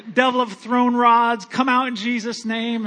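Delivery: loud preacher's command casting out a devil; commanding rebuke. Retold or imitated. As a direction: bark it like an exorcism. Casting out demons over truck.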